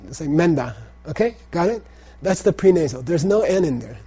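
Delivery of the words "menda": MENDA with the nasal melting into DA; slurred together. Shown as a demonstration. Teacher shows how Tibetans say it, slurred menda. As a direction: run "menda" together as one slurred word. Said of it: "They slur it".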